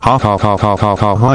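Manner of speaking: mechanical, evenly repeated "ha"; mock laugh. Narrator acting out his rampage, mechanical mock laugh. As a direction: stiff looping laugh with no mirth.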